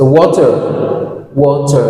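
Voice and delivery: African pronunciation. Shown as a demonstration. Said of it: "Ici en Afrique".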